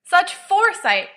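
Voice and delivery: high, slow, hammed-up drunken toast; drunken praise. Sirius drunkenly toasting Mooney's purchase, high and gushing. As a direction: gush over him like a tipsy host.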